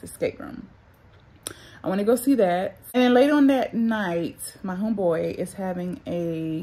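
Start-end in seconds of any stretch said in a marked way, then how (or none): 0.0-0.7 unvoiced whisper to herself. Real, not acted. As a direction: breathe the title as a whisper. Repeating the title to herself.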